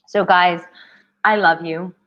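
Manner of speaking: hoarse, worn-out voice; losing her voice, push through it. Real, not acted. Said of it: "I'm losing my voice".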